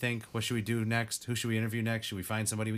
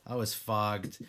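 foggy and slow; 2 semitones lower, slower than usual. Real, not acted. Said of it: "mentally disabled".

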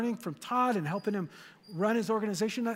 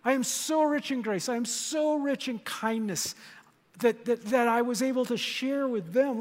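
proud boast; 3 semitones higher than usual. Retold or imitated. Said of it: "point to us in future ages and say".

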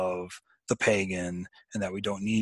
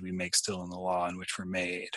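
whispered; 2 semitones lower, 6 dB quieter than usual. Acted. Reciting Tolkien poem lines.

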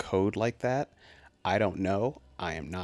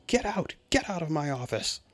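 put-on gravelly old tycoon; 9 semitones higher than usual. Boss throws someone out.

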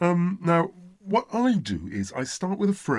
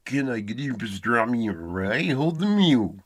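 throaty, raspy mock French accent; bad French accent; 5 semitones lower than usual. Shown as a demonstration. Coach puts French together for pupil, hammed-up French accent. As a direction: run it together in a buzzing, nasal French accent. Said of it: "what about French?".

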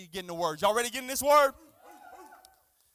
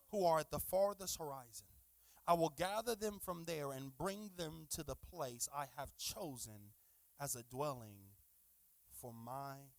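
scripture reading. Real, not acted. Reads scripture aloud to congregation.

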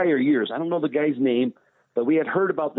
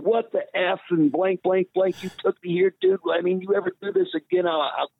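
half-mocking angry outburst, pitched up; retold angry threat; 5 semitones higher than usual. Telling off the kid who set him up, in a mock angry outburst. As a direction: blow up at him in a retold tirade.

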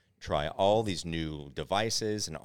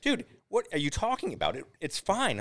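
imitating roommate; 12 semitones higher than usual. Roommate reassuring the stoned friend.

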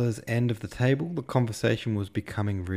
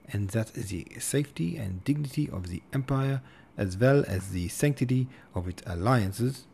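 put-on German accent; 2 semitones higher than usual. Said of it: "speaking with a German accent".

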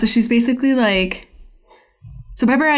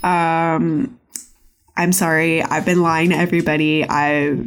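lower, halting mock confession; retold sheepish confession; 3 semitones lower than usual. Pepper Ann confessing her lies to Nikki, lightly acted sheepishness. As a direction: own up haltingly, acting it lightly. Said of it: "finally confesses to Nikki".

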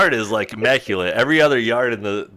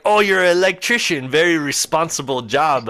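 imitated old Dutchman, pitched up; Dutch accent; 5 semitones higher than usual. Old man tells the driver his age, Dutch accent. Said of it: "that's definitely what the accent sounded like".

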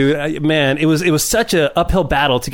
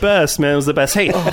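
ordinary talk

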